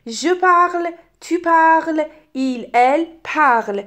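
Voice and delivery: "parle" and "parles" all said "parl", endings silent; identical verb sound. Shown as a demonstration. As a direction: demonstrate "parle", "parles", "parle" as one same sound. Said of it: "این سه تا تلفظشون شبیه هم شد".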